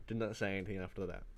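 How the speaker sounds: soft repeat that drives the point home; quiet echo. Real, not acted. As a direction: let the echo drop to a near murmur. Emphatic echo.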